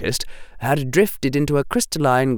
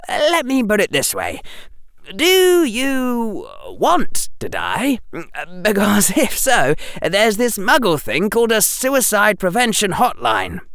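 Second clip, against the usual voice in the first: put-on higher, brisk boyish Harry with sarcasm; young Harry voice; 11 semitones higher than usual. Harry answering the headmaster, higher and sarcastic. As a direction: voice Harry as a cheeky boy.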